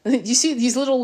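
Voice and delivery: ordinary talk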